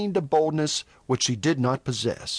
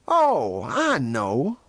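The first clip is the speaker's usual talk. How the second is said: knowing taunt, falling from a raised "oh"; much slower than usual. A narrator's reading. Venters jeers at Toll's motives, taunting. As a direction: needle the opponent. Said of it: "went on Venters tauntingly".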